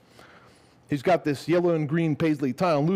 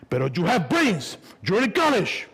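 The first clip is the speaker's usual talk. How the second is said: scolding dad; 7 semitones higher than usual. Retold or imitated. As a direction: plead and scold at once.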